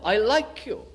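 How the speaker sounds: high-pitched, falling reply; pleading protest. Retold or imitated. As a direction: imitate a high, insistent plea. Repeats Peter's answer in his voice.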